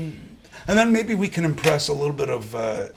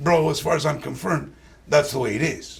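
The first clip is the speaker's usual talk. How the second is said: Brooklyn accent; 3 semitones lower than usual. Shown as a demonstration. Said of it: "the wise guy".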